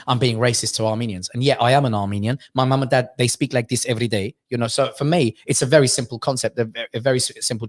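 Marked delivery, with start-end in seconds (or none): 1.6-4.3 lower-pitched Armenian-accented English. Shown as a demonstration. Comic showing how mum and dad speak, Armenian accent. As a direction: slip into your parents' Armenian accent. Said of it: "if I'm doing an accent as Armenian".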